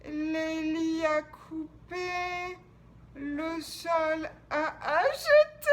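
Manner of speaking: slow, half-sung, dreamlike; dreamy. Acted. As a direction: drift through it, half asleep. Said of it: "comme dans un rêve".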